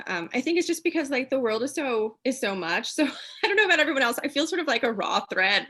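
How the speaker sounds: teary laugh. Real, not acted. Laughs off tears, voice jumps.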